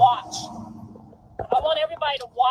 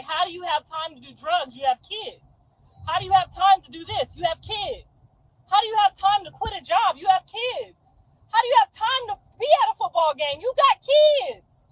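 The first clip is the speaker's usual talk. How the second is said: rising higher and louder with each question; building rant; 5 semitones higher, 3 dB louder than usual. Retold or imitated. Scolding other parents online, building from firm to a shout. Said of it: "I'm the motherfucker who's like".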